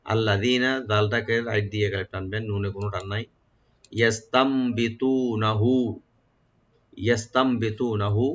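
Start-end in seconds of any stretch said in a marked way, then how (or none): 4.0-8.3 slow recitation. Shown as a demonstration. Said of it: "ইয়াটাকে open করে পড়বেন".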